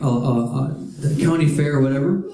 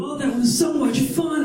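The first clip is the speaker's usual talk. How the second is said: mock happy riders; 8 semitones higher than usual.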